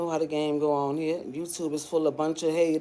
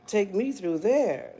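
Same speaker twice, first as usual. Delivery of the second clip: slow, drawn out; 3 semitones higher, slower than usual. Shown as a demonstration. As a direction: Take me through there, slow and deliberate. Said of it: "repeat slowly".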